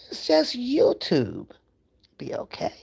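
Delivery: whisper. Real, not acted. Soothing chat after anger.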